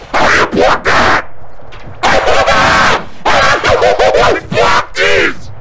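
very slow, high shout; stretched-out high protest; outraged protest. Real, not acted. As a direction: drag it out in outrage. Protesting a missed block.

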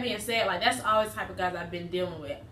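chewing while talking; speaking between bites; mouth full. Real, not acted. Seen 0: Holds a crispy food piece to her mouth and bites, chewing mid-speech.

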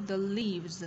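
"leaves" ending in a clear voiced z; Z ending sound. Shown as a demonstration. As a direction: model "The leaves", tongue out on "The", buzzing z at the end. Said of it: "Z ending sound này". ("leaves" rõ âm z cuối)

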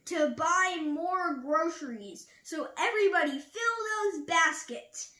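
store announcement. A narrator's reading. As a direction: announce it brightly to a crowd of shoppers. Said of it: "she announced".

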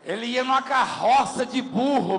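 slow, spelled-out translation; translating for listeners. Shown as a demonstration. Pastor translating a worshipper's words for the crowd, slowly. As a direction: say it slowly so everyone gets it. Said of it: "Deixa eu traduzir".

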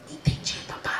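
put-on child's whisper. Toddler whispering he understands to dad, whisper. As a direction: breathe it like a sneaky toddler.

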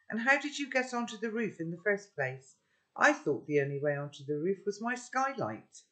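a hint of a suspicious girl; lightly voiced girl. Sophie's voice in the story.

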